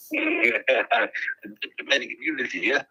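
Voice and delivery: mock Australian accent drifting toward South African; slow, hammy attempt at an Aussie drawl; wobbly Australian accent. Caller's fake Australian accent slips toward South African. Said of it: "That sounded more South African".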